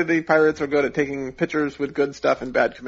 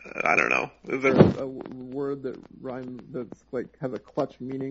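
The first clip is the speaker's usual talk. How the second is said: sounding underwater. Real, not acted. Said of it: "You sound like you're underwater again".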